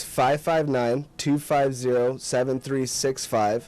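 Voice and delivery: slow, over enunciating each digit; slowly. Shown as a demonstration. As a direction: read each number slowly and clearly. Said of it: "One more time slowly".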